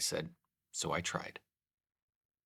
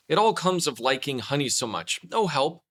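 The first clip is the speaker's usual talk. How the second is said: rueful cry; 4 semitones higher, 5 dB louder than usual. Acted. Pooh landing in gorse.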